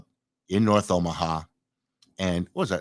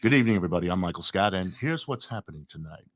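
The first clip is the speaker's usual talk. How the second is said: TV anchor voice; 5 semitones lower than usual. Shown as a demonstration. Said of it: "give us your T V voice".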